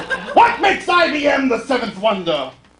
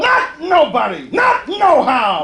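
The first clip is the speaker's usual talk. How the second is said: defiant shout; 5 semitones higher than usual. Acted. Sung reply to the salesman, defiant shout. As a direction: shout it, higher and proud.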